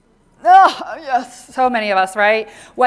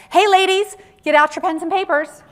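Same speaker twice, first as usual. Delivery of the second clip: mock call to the room; 7 semitones higher, 4 dB louder than usual. Speaker acts a presenter calling.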